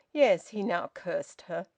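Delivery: plain reading voice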